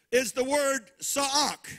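sa'ak drawn out with a long open ah; Hebrew word. Shown as a demonstration. Preacher teaching the Hebrew word sa'ak, slow and careful. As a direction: say sa'ak slowly, two open syllables. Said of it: "not sock, but sa'ak".

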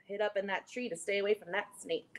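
quick whisper. Acted. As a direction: whisper it fast to the kids. Quiet relieved aside.

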